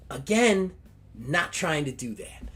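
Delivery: put-on valley girl Barbie. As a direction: squeal it like an excited valley girl. Barbie voice again.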